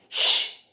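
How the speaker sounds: SH alone, a drawn-out hush; isolated onset. Shown as a demonstration. Teacher naming the onset of sheep, isolated sound. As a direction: hold just the SH sound. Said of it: "é o onset".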